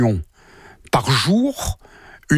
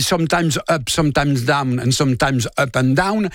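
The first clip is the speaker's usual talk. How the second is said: put-on English lyric in a heavy French accent; 2 semitones lower than usual. Historian quoting a singer on air, French-accented English. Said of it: "excusez-moi pour mon accent anglais".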